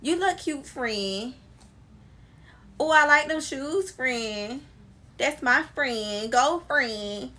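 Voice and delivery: high, sugary compliments; imitating the friend who says friend after everything; mock gushing friend. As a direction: gush like a fake friend hyping you up. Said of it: "Everything be friend".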